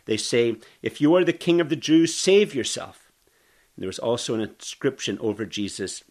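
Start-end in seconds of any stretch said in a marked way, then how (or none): 0.8-3.1 mocking taunt. Soldiers mocking Jesus.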